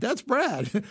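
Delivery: high, delighted exclamation; quoting her delighted surprise at hearing Brad in an ad; surprised recognition. Retold or imitated. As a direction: recognise a friend's voice and light up. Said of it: "I said".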